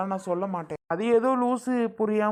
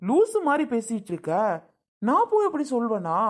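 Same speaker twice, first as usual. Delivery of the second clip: raised-pitch, incredulous protest; exasperated denial. Acted. Brother denying he'd send sister away, exasperated. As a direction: scold as if the accusation is absurd. Brother denies her accusation.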